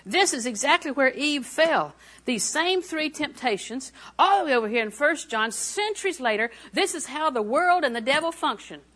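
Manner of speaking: fervent exhortation with stressed key words; emphatic preaching. Real, not acted. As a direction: drive the revelation home to the congregation. Preaches the point with force.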